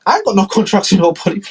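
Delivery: high, frantic squeal over the bills; panicked Trump. Acted. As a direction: shriek it in disbelief.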